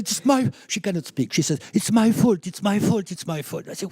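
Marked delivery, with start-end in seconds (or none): 0.0-0.5 imitating crying. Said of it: "she's now crying on the phone". 1.7-3.7 imitating crying wife. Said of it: "she's now crying on the phone".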